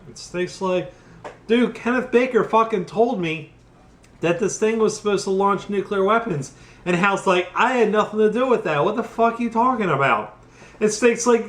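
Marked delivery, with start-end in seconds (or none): 1.5-6.5 exasperated yell. Retold or imitated. Snake confronts Hal angrily. 7.6-10.4 panicky denial. Retold or imitated. Hal defensive, panicking.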